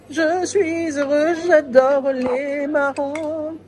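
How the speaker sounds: slow, talking through a mouthful; mouth full. Real, not acted. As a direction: speak around a bite of chestnut. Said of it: "j'ai la bouche pleine".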